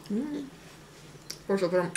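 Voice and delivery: chewing while talking; talking between bites of bread; mouth full of bun. Real, not acted. Seen 0: Woman bites bun at 0.1-0.7, then talks with mouth full, chewing.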